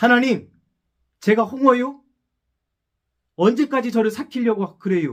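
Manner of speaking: angry outburst in Chungcheong dialect, high and loud.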